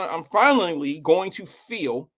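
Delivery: lisping through a retainer; slow, slushy "finally going to feel". Real, not acted. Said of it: "sorry, I got my retainer in".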